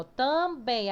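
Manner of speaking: "também" slowly divided as tam, bém; syllables split apart. Shown as a demonstration. Teacher showing pupils the strongest syllable, "também" split slowly. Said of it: "a mais forte é bem".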